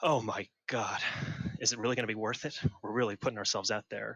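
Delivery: quiet mutter under his breath. Voicing a character who sits down awkwardly in a crowded tavern: muttering under his breath. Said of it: "under his breath".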